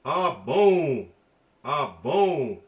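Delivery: "Ah, bon" with the vowel of "bon" pushed through the nose; nasal sound. Shown as a demonstration. Teacher demonstrating the nasal N, air through the nose. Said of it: "It's the nasal".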